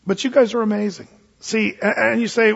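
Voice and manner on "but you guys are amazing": mock-humble, then mock praise; a preacher voicing Paul's sarcasm; sarcastic. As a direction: lay the sarcasm on slowly. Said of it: "in a sarcastic way".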